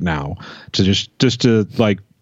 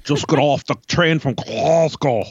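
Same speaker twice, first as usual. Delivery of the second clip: higher, hammed-up Glasgow accent; Scottish accent; 6 semitones higher than usual. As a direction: lay on a thick mock Scottish accent. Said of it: "do a Scottish accent".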